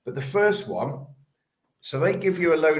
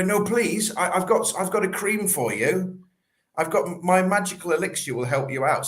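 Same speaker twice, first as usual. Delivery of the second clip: desperate seller; 5 semitones higher than usual. Retold or imitated. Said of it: "you fall into the trap of selling".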